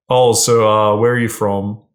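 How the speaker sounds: bland, routine small-talk question; boring interview mode. Shown as a demonstration. Man making small talk with a girl, bored interview tone. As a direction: ask it like a dull interviewer. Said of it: "very boring, platonic interview mode".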